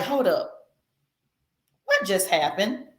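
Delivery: quiet, taken-aback double take; acted bewilderment. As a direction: drop the volume, as if caught off guard. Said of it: "to where they're like".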